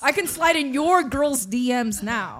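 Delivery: each word carefully and slowly spelled out; slow, crisp, deliberate enunciation; over-articulated. Real, not acted. Guest showing off his speech to the hosts, slow and over-enunciated. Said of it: "Why are you articulating so hard?".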